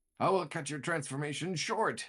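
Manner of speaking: triumphant hero voice, high, loud, boastful. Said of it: "and he says".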